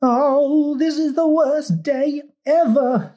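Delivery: very high, drawn-out fly wail; squealing fly. A narrator's reading. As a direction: squeal it like a tiny doomed insect. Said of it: "squealed the fly".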